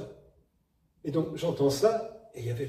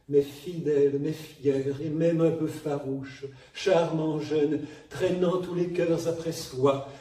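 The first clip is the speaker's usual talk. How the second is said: Sarah Bernhardt style. Retold or imitated. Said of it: "le superbe enregistrement de Sarah Bernard".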